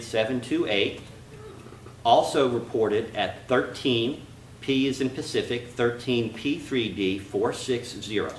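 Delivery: slow, spelled out for the record; slow dictation. Real, not acted. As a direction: dictate slowly, letter by letter. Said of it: "please slow down and can you repeat that?".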